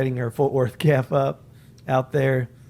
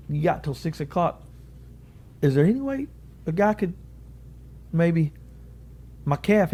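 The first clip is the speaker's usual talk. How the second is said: pleading; 5 semitones higher than usual. Retold or imitated. Asking official to swap his calf.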